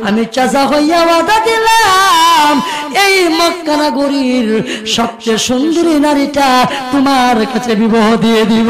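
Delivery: drawn-out, singing sermon delivery; melodic waz preaching. Acted. Uncle making his nephew a solemn promise, in melodic chant. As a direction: chant the promise, rising then settling.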